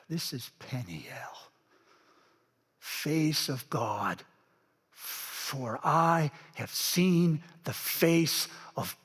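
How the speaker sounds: soft, slow, breathless wonder; hushed as if on holy ground; awed whisper. Acted. Jacob alone in the grass, an awed whisper. Jacob awestruck after the encounter.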